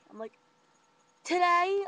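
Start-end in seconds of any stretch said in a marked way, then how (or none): 1.2-1.8 "Today?" jumped much higher and louder, rising; "Today?" as a shocked rising question; incredulous. Retold or imitated. Rachel hearing the anniversary answer, "Today?" high and shocked.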